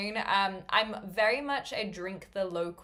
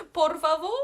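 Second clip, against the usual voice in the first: lilting please; 8 semitones higher, 6 dB louder than usual. Acted. Mock tourist Spanish phrase.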